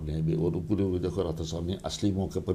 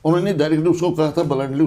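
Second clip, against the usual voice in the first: emphatic; 7 semitones higher, 6 dB louder, faster than usual. Real, not acted. Stressing the bluntness.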